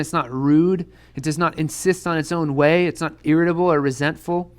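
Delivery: measured, deliberate scripture reading. Acted. Pastor reading First Corinthians to the youth group, measured.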